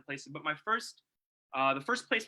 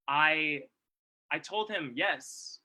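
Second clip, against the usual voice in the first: slow, hesitant yes with a pause before it; much slower than usual. Retold or imitated. Speaker retells a hesitant answer to a friend. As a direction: ease the yes out carefully. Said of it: "in that sort of hesitant mode".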